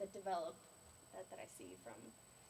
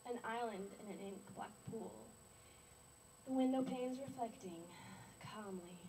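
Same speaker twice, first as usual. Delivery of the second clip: deliberate poem reading, phrase by phrase; poetry recital. Acted. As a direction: read your poem aloud, pausing between images. Recites own poem to audience.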